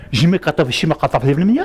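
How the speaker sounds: mock French accent gibberish; fake French. Father teasing his kids, mock French accent. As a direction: put on a hammed-up French accent. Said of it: "my fake French".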